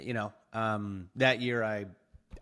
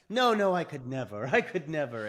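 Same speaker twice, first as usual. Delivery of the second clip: laughing through a higher no, no; lightly mock his own panic while laughing; laughing refusal; 4 semitones higher, 6 dB louder than usual. He refuses his wife's push, laughing at himself. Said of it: "And I'd be like".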